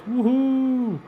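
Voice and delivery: high, gleeful whoop of relief; real delighted woohoo; excited whoop. Real, not acted. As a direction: cheer because it finally works. Celebrating that the stream is live.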